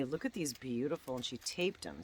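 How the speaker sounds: normal talking voice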